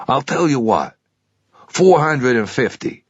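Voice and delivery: a keen clerk talking up his stock; pawnshop salesman. Acted.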